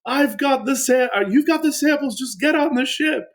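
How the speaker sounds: urging a friend to run for the ship; high, pressing shout-out of a teammate; urgent friend. Retold or imitated. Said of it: "my friend was like".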